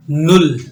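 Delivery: नुल said as German null, short u, clear l; teacher models नुल for students to repeat. Shown as a demonstration. Teacher drilling students, slow clear German null. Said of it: "German language में कहा जाता है नुल".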